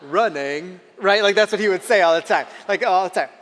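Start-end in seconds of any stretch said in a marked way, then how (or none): 0.0-0.8 put-on Forrest Gump accent. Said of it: "Forrest would be like".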